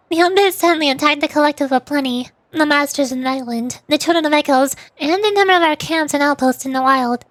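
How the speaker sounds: lightly acted story narration; game dialogue read-aloud. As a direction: read the character's report with light urgency.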